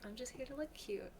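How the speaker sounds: small, high, soft pet voice; pet's cute voice. Pretend. Speaks for the pet Timmy.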